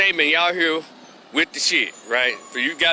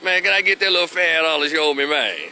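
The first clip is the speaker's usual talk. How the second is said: Memphis debtor reply; 4 semitones higher than usual. Retold or imitated. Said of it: "The guy said".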